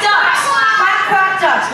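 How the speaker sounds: mock duck quacks. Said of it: "my impression".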